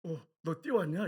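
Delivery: imitating a mildly startled superior; slow, drawn-out question of disbelief; taken aback, lightly acted. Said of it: "깜짝 놀라는 거예요".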